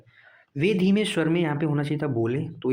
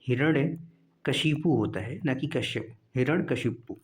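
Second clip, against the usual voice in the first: slow spelling-out; slower than usual. Shown as a demonstration. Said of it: "हिरण्यकश्यपु".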